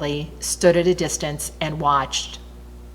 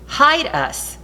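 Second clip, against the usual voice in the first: desperate cry; 9 semitones higher than usual. A narrator's reading. People cry to hills.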